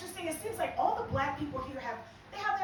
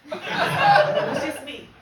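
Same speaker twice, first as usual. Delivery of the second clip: high squeal; 13 dB louder, much slower than usual. Acted.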